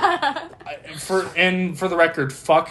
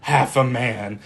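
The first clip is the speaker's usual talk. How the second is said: slow, dramatic line reading; movie character voice; slower than usual. Shown as a demonstration. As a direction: deliver it slowly like the film. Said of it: "Say it in the voice".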